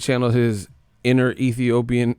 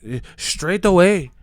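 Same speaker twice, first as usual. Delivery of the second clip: high, slow mock British accent; mock British fan; 7 semitones higher, 5 dB louder than usual. Mocking British fan, slow high mock accent. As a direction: drag it out like a scoffing Brit. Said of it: "he can knock 'em out straight away".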